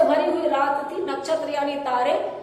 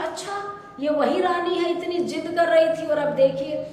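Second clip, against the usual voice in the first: mildly amazed onlooker; a touch of surprise, pitched up at first; acted astonishment; 3 semitones higher than usual. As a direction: voice a bystander's lightly acted wonder. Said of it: "किसी में विस्मय".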